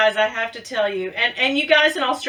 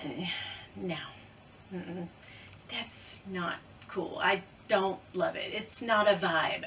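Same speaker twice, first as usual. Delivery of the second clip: dismissive; 4 semitones lower, 12 dB quieter than usual. Retold or imitated. Retelling her first dismissive reaction.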